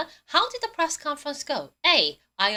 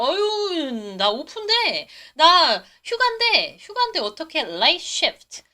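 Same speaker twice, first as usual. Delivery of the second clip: mock whining protest; 4 semitones higher, 4 dB louder, slower than usual. Acted reply of vacationing employee.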